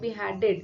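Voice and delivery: beheaded with the middle syllable HEAD emphasised; stress on HEAD. Shown as a demonstration. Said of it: "आप बोल के भी".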